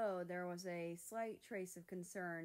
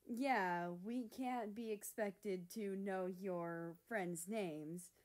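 eye-rolling; slower than usual. Acted. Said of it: "rolling his eyes".

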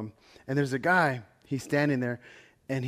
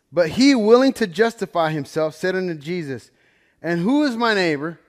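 louder, measured reading of the verse; formal Bible reading voice; scripture reading; 3 dB louder than usual. Acted. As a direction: read it out like holy text. Reads the scripture passage.

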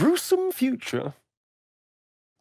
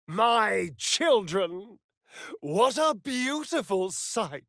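gloating; 5 semitones higher, slower than usual. Acted. Gloating over his creations.

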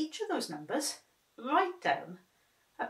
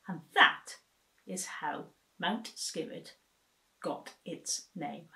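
storytelling close. A narrator's reading. Story ending cadence.

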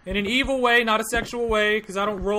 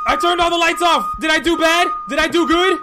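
panicked; 5 semitones higher than usual. Real, not acted. Gamer panicking after turning the lights off. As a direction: blurt it out in a rising panic.

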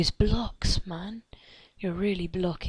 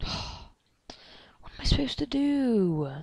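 slow, high, breathy whisper; sighing whisper; 5 semitones higher, much slower than usual. Real, not acted. Stuck player whispering to himself, slow and helpless. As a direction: sigh it out, lost and helpless. Lost and hiding in game.

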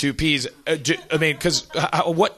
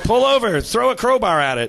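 high, louder urgent order; mock panic; 9 semitones higher, 4 dB louder than usual. Passenger orders the driver to attack, high mock panic. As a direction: cry out a frantic command in play.

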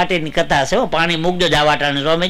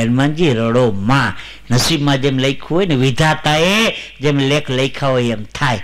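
calm consoling; 4 semitones lower than usual. Acted. Rama consoles crying Hanuman.

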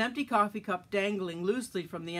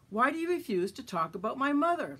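higher, louder pushing question; pressing; 6 semitones higher, 4 dB louder than usual. A narrator's reading. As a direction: keep pressing him. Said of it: "little Joe pressed".

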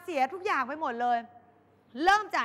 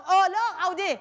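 louder, careless shrug; bored boyfriend calling her bluff; dismissive; 4 semitones higher, 5 dB louder than usual. Retold or imitated. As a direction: call her bluff flatly.

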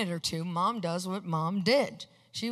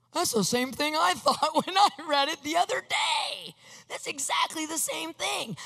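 excited disbelief; 6 semitones higher than usual. Retold or imitated. Recognises his mother's scripture in sermon.

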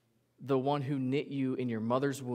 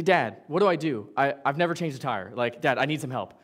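louder, urgent plea to Dad; calling Dad for help; 7 dB louder than usual. Pretend. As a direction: call out to your dad in a panic. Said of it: "You say".

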